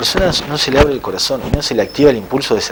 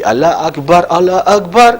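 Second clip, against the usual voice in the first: higher, slightly louder muezzin's call, lightly imitated; llamado a la oración imitado; 7 semitones higher, 4 dB louder, slower than usual. Shown as a demonstration. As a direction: quote the adhan with a rising, lifted voice. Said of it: "la primera parte del Adán dice así". (llamada del muecín, levemente imitada y más aguda)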